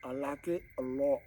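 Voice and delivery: lightly voiced goofy movie character; a hint of the Dumb and Dumber line delivery; Jim Carrey impression. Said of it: "To quote Jim Carrey's character off of Dumb and Dumber".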